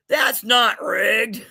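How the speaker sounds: slow, whiny mock protest; mock whine. Host teasing a viewer, whining slowly that it's not rigged. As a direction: stretch it out like a sore loser.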